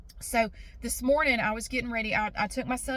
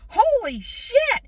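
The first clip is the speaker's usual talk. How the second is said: high, slow amazed exclamation; stunned; 12 semitones higher, 7 dB louder, much slower than usual. Retold or imitated. Woman seeing a giant mole, slow amazed exclamation. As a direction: drag it out in disbelief.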